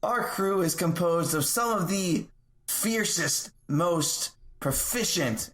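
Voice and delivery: lightly performed rallying speech, deliberate pacing; measured tavern oration; in-character speech. Acted. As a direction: address the crowd as a self-introducing speaker. In-character speech to bar crowd.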